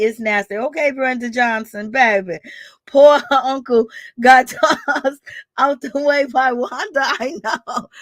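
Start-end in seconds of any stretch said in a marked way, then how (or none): 2.9-7.9 words broken by giggles; laughing while talking. Real, not acted. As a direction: laugh through the sentence.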